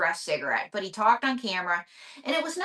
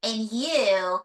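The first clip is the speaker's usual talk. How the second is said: lightly voiced flirty puppet, drawn-out ending; puppet diva May, flirtatious; slower than usual. Puppet May flirts with the interviewer, lightly voiced diva. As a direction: play a puppet diva flirting, slowing on the compliment.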